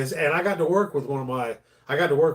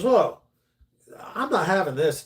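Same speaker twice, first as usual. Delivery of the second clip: indignant lady; 5 semitones higher than usual. Acted. Lady reacts in joke.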